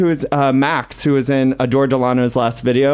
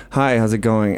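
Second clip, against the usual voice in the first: put-on boy voice; 2 semitones lower than usual. Shown as a demonstration. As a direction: say it in your everyday male voice. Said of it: "when I'm a boy, it's like this".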